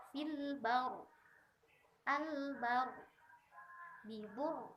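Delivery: fil baru with a heavy, pressed r; thick stopped r. Shown as a demonstration. Teacher showing students a thick r at the pause. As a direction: bibur ending on a thick r. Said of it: "harus dibaca tebal".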